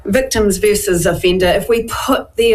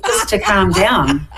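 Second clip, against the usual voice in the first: slow, chuckling through the words; laughing; slower than usual. Real, not acted. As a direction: laugh it out slowly. Jokes Mark went for massage.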